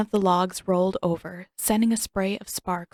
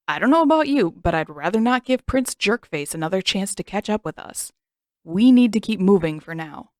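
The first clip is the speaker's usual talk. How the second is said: firm insistence; 7 dB louder than usual. Acted. Sokka firmly insisting.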